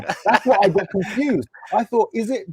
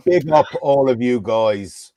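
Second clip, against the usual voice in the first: put-on Irish accent; 5 semitones lower, slower than usual. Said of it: "What part of Ireland was that from exactly?".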